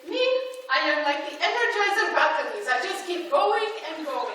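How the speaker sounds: lightly imitated Dutch accent; a hint of Mother's Dutch accent; little Dutch accent. Mother answering how she is doing, little Dutch accent. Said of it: "in her little Dutch accent".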